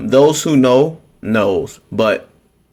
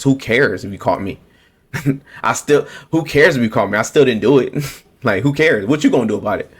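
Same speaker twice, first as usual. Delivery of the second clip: mock smug shrug. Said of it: "This is how they feel about us".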